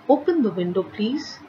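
polite request. Shown as a demonstration. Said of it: "is a request".

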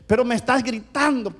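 high, insistent complaint; acting out the wife's accusation; complaining wife. Wife insists husband is yelling, protesting. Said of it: "me decía".

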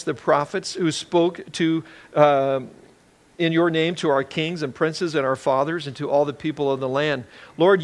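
earnest reading of a prayer from Scripture; measured, solemn Bible reading. Acted. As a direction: read the prayer out with reverence. Reads Daniel's prayer aloud.

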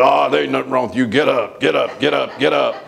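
quick, brushing-off coach voice; brusque coach. Retold or imitated. Coach telling the hurt boy to get up, brusque and quick. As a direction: wave off the hurt player fast. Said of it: "He said".

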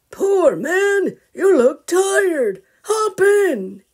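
high, loud kindly voice; pitying grandpa. Acted. Grandpa offering tired Mister a ride, high and kind. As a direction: take pity and offer a ride.

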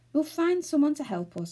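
mildly mournful; gloomy. A narrator's reading. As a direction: say it with a touch of gloom. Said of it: "said Moonface gloomily".

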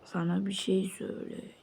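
fast unvoiced secret; quick whisper. Sharing a secret, quick whisper. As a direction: lean in and tell it hushed.

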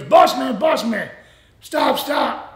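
retold urgent call to a departing driver; calling out urgently. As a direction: call someone back before they leave.

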